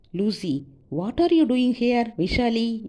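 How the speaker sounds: high, loud, drawn-out query; surprised questioning. A narrator's reading. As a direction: call out a startled question to a companion. Companion calls out on finding her. (உரத்த, வியப்பான கேள்வி)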